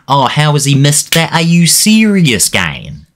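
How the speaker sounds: high, slow cry of disbelief; can't believe the miss; frustrated fan reacting to a missed chance. Real, not acted.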